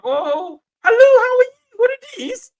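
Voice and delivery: mocking a Jamaican back from abroad who puts on a foreign twang, pitched high. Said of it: "we twang like".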